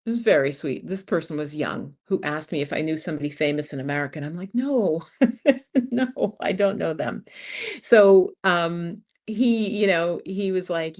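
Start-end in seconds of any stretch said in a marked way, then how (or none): 4.5-7.2 laughing denial. Retold or imitated. Asked if she knows celebrities.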